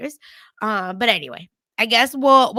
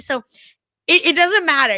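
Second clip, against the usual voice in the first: normal talking voice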